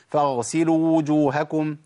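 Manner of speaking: "فاغسلوا وجوهكم" with the two waws assimilated into one, slow; merged waw. Shown as a demonstration. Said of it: "ده ما ينفعش".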